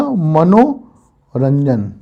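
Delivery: मनोरंजन stretched out very slowly, syllable by syllable, with a falling close; teacher spelling out मनोरंजन in slow motion; drawn-out answer. Shown as a demonstration. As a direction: draw out मनोरंजन slowly so the class can follow each syllable. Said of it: "तो क्या हो जाएगा?".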